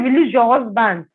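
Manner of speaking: imitated firm order; retold demand. Accuser ordering the wife about her husband, insistent. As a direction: press the demand, mildly forceful.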